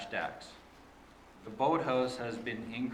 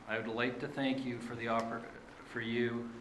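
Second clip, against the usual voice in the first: nervous. Real, not acted. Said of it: "a little nervous".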